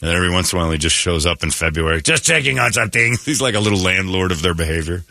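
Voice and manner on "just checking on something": put-on elf dropping by, in a French accent; casual check-in with a mock French accent. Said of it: "French accent".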